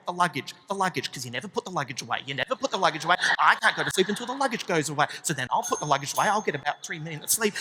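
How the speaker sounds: a hint of a seething wife; hushed angry wife. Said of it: "hushed, angry argument".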